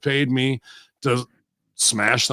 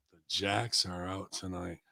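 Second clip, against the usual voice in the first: murmured back quietly, lower pitch; softly repeated; 5 semitones lower, 16 dB quieter than usual. Shown as a demonstration. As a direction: muse on the words quietly. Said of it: "oh, look, the Jacks are out tonight".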